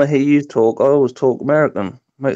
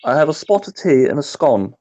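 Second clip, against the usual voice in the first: playfully prove you sound British; half-hearted British accent; mock British accent. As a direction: lay on a touch of British accent. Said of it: "I do have a British accent".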